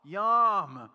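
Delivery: loud, high delighted yum; hint of a wife tasting the best bite; mock savoring. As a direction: imitate wife relishing a bite. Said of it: "close her eyes and eat it and be like".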